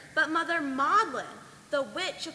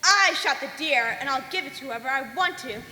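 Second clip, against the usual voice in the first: witch's scorn; 5 dB louder than usual. Acted. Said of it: "she looked rather strange".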